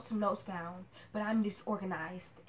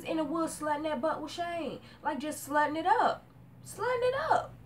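rising to a shrieking pitch on the repeat; outraged; 8 semitones higher, 4 dB louder than usual. Real, not acted. Vlogger scandalised by Lori's affair, shrieking higher. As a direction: climb way up in scandalised disbelief. Outraged rant about Lori.

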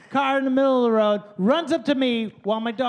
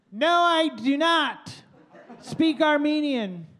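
laughing; 5 semitones higher than usual. Retold or imitated. His own deadpan reply retold.

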